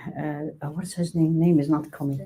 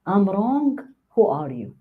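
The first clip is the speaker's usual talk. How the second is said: defensive retort; 2 semitones higher, slower than usual. Shown as a demonstration. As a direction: push back at being corrected. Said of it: "Huge difference".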